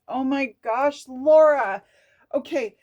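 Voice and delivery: loud high burst of excitement to herself; excited. Real, not acted. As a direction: cry out her own name in delight. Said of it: "I get so fucking excited".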